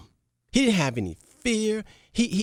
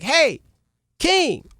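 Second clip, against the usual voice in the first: higher, proud happy report; happy servant; 7 semitones higher, slower than usual. Acted. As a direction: boast gladly to the king. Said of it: "was so happy".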